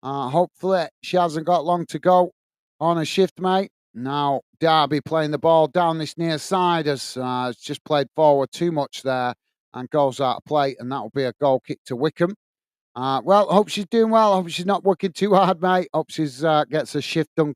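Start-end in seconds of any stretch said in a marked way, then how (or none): 3.9-12.3 measured football commentary; live play-by-play. Real, not acted. Match commentator telling stream viewers it's a goal kick, measured play-by-play. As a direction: call the match steadily as it unfolds.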